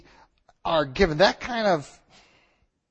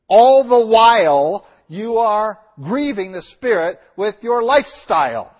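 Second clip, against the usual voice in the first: rising warning; 3 semitones higher, 7 dB louder than usual. Real, not acted. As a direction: lean in hard on the warning. Preacher warning hypocrites.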